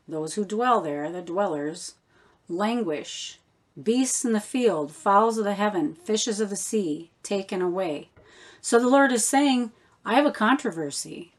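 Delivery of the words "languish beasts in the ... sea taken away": listed phrase by phrase, weight on "languish", "beasts", "fowls", "fishes", "taken"; emphasized key words. Shown as a demonstration. Teacher listing the manuscript words, stressing "languish", "beasts", "fowls", "fishes". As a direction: pick out "beasts", "fowls" and "fishes" as separate items. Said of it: "what I'm emphasizing".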